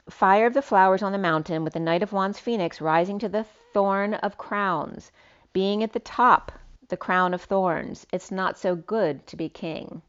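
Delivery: slightly lifted, declamatory read; poetic reading. Acted. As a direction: read it out like a cryptic verse. Reads out written poetic message.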